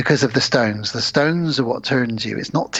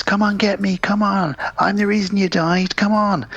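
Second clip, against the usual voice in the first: imitating taunting dad; 7 semitones higher than usual. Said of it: "And he goes".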